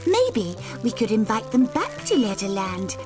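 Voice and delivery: high, gushing and thrilled; delighted girl. Acted. Golden Girl gushing to Annie Apple about the trip. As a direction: brim over with plans.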